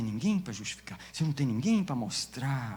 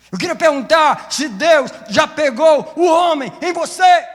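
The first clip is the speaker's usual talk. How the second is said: full-force shout, high and loud; preaching shout; 17 dB louder than usual. Real, not acted. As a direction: shout the question at the church.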